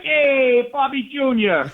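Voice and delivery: high, bright mock-aristocrat hello; posh Kennedy greeting. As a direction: greet him like old Boston money. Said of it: "walk down the street like".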